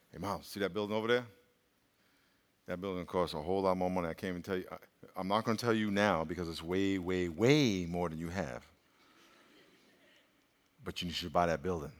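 very low, soft inner whisper; small still voice. Retold or imitated. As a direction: hush it like a conscience. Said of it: "a small, still voice".

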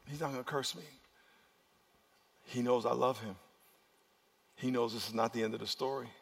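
quiet, assured reply as God; God speaking calmly. Acted. God answering the devil about Job, calm and quiet. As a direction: answer softly, with quiet trust. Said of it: "And God is over here saying".

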